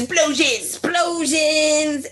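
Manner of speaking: drawn-out hyped yell; excited shout. Acted. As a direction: belt it out with glee. Hyping the explosion.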